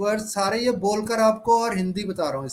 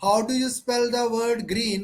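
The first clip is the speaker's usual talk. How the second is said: slow model question with each word distinct; slow, deliberate; 2 semitones higher, much slower than usual. Shown as a demonstration. Teacher quizzing pupils on spelling, slow and deliberate. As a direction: ask it slowly for learners to copy. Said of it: "जल्दी जल्दी नहीं बोलना".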